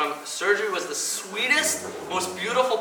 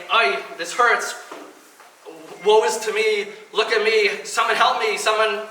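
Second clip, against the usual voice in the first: mock self-pity; 3 semitones higher than usual. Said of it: "I didn't wake up in pain saying".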